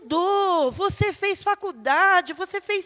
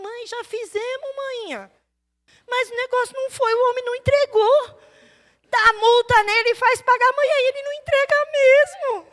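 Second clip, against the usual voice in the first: laughing complaint to mom; 5 semitones higher than usual. Retold or imitated. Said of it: "Eu falo".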